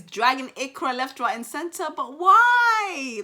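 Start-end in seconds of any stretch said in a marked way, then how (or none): 2.0-3.2 loud, high, pleading question; raised, disbelieving appeal; exasperated protest. Real, not acted. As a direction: wail it out in protest. Protesting everybody going off on Ikra.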